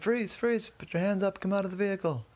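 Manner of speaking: high, urgent orders at talking volume; mock police command. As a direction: call out like police making an arrest, without real shouting. Police shouting orders during a raid.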